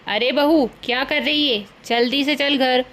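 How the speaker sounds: mother-in-law yelling for the daughter-in-law; shouting. Acted. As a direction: call her home sharply. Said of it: "सास चिल्लाते हुए आती है".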